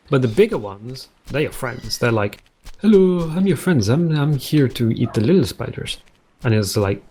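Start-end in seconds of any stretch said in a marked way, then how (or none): 2.8-6.0 friendly big spider. Retold or imitated. Big spider greeting the bathroom guy, higher and friendly. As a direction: play a cheerful helpful spider.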